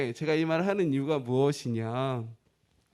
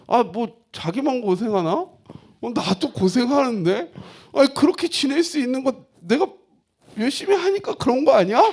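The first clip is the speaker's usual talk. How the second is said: higher, louder self-justifying complaint; indignant grumble; 7 semitones higher, 5 dB louder than usual. Retold or imitated. Husband silently protesting that he suffers too, indignant and raised. Acting out his resentful inner thought.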